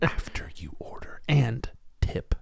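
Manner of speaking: slow, soft mock whisper; whisper in the ear. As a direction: whisper it slowly and discreetly. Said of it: "Whisper in his ear".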